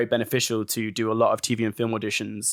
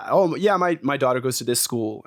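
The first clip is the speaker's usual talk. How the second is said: put-on American accent. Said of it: "in our American accents".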